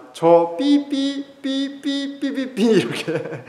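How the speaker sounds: high, slow mock bleeping of the father's swearing; bleeped angry dad; bleeped-out father's curse. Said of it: "아버지가 그 화면에 나온 데모하는 사람들을 두고".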